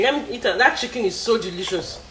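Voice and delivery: eating while talking; mouth full. Real, not acted. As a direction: talk through a mouthful. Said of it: "take another bite of chicken".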